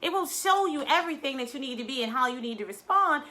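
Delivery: ordinary talk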